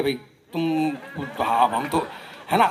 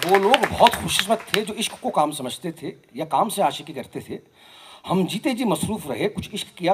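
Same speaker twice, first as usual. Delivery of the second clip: measured mushaira-style recitation; poetry recital; 4 dB louder than usual. Acted. Poet reciting Faiz to an audience, poetry recital. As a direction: recite the verse line by line, with pauses.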